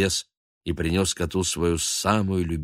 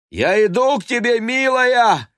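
much higher, louder call; heroic shout; 8 dB louder than usual. A narrator's reading. Baguette shouting down to Murianna, heroic. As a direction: call down to her bravely. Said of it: "крикнул он Мурианне".

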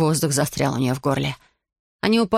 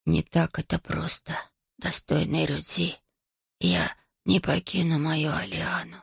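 calm dragon; 6 dB quieter than usual. Acted. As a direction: answer with quiet dignity. Dragon Kaba speaks.

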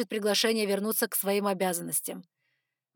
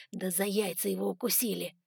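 lightly acted jeer in a changed voice; chuckling jibe; 3 dB quieter than usual. A narrator's reading. Someone in the hall jokes about Simon, lightly chuckling. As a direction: toss it out as an amused heckler. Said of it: "хохотнул кто-то другой".

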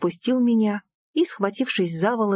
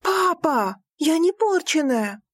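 cry out; 8 semitones higher, slower than usual. Acted. Daughter to father, crying out. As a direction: cry out till hoarse. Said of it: "вскрикнула так, что охрипла".

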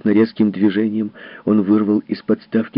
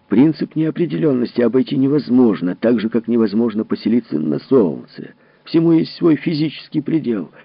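louder, pressing the point; insistent, raised voice; 4 semitones higher, 4 dB louder than usual. Acted. Foster arguing with Potterley, voice raised. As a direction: hammer home the limit.

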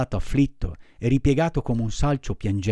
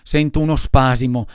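building sneeze; 3 semitones higher, 6 dB louder, slower than usual. Acted.

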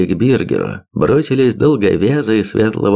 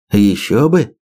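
usual speaking voice

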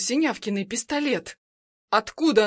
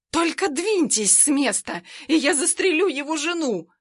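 shout; 5 semitones higher than usual. Acted. Armed woman shouts at the guards to stay back. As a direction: yell a threat at the guards. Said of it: "кричит она охране".

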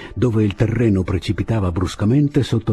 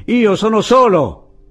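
slow, high, loud cry; drawn-out high shout; insistent yell; 14 semitones higher, 7 dB louder, slower than usual. A narrator's reading. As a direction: yell it so it carries to the parapet. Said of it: "urlò Andrés".

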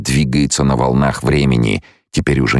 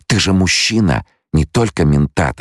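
mild retort, higher pitch; snappish; 6 semitones higher than usual. A narrator's reading. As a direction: retort with a touch of irritation. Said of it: "огрызнулась она". (слегка огрызаясь)

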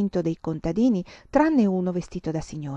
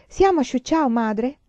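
much higher, louder eager question; excited child; 6 semitones higher, 5 dB louder than usual. Acted. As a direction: pipe up eagerly to mother. Child excitedly asks on train. (bambina eccitata, voce molto più acuta)

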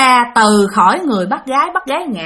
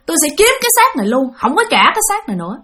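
lightly raised spirit voice refusing to leave; a hint of the ghost's defiance, a little higher; possessing ghost voice; 4 semitones higher, faster than usual. Ghost in the aunt refusing to give back the body, mildly eerie. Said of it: "Nói vậy các bạn".

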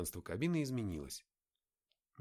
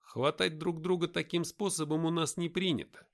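lightly voiced brisk guide; a hint of a commanding leader; character voice; 8 semitones higher, 5 dB louder than usual. Nick voiced higher.

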